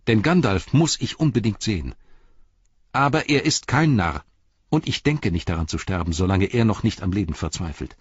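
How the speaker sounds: a loyal hobbit refusing farewell; earnest hobbit Pippin. Acted.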